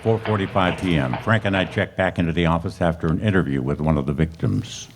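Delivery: measured police-report narration over music; case narration. Acted. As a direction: recount the facts like a detective's log.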